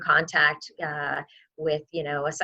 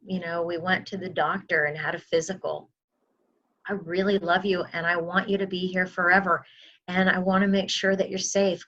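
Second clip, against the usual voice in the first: gentle pleading. Shown as a demonstration.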